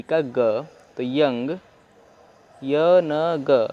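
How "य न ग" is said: very slow, each syllable apart; slow sounding out. Shown as a demonstration. Teacher sounding out young syllable by syllable. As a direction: break यंग into its sounds. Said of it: "तो ऐसे आप पढ़ सकते हैं".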